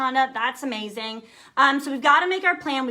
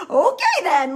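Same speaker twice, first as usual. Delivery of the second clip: laughing loud and slow; real laugh at her husband's push; 10 semitones higher, 6 dB louder, slower than usual. Real, not acted. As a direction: laugh it out, caught off guard.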